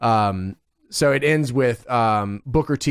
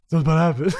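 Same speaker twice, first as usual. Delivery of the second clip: mock shouted ominous warning; Vampiro promo voice; much faster than usual. Hyping the match ending to his cohost, mock shout. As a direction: ham up the wrestler's hype line. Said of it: "Vampiro on the mic".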